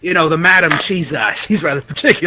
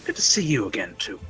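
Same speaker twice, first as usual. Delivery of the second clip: whisper; 5 semitones lower, 8 dB quieter than usual. Acted. GM whispers NPC greeting.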